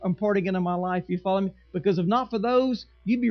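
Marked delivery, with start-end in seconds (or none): 0.0-1.0 softer, sincere thanks; grateful member. Retold or imitated. Church member quietly thanking Pastor Jack, soft and sincere. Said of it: "coming and say".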